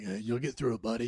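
low, soft reassurance; mock consoling. Starbucks stranger consoles the yelling man, mock gentle. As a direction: quietly comfort a stranger, half-joking.

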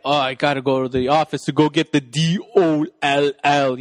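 lightly voiced movie-dad impression; a hint of hammy action-star father; Schwarzenegger. Host as dad spelling before the kid, light impression. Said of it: "He's like".

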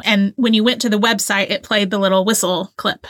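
slightly winded, talking between breaths; out of breath from excited talking. Real, not acted. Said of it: "Sorry, I'm out of breath".

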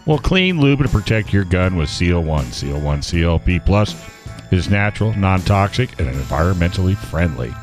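put-on bright, upbeat old-time ad read; chipper 1950s ad. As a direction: sell it like a vintage radio ad. Reads a sponsor ad.

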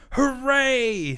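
high, loud squeal of joy; a crowd of small animals cheering; cheering hooray. A narrator's reading. Friends cheer.

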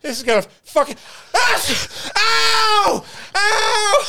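high crying yelps through laughter; imitating his pained cry. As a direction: shriek it like it really hurts. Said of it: "He's like".

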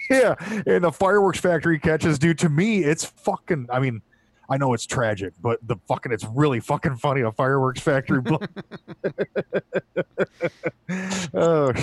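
giggling through words; can't stop laughing; laughing while talking. Real, not acted. Laughing about fireworks blast.

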